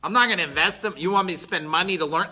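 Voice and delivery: hammed-up reluctant student making excuses; mock excuse-maker. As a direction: play the lazy guy dodging the work. Mimics an unwilling excuse-maker.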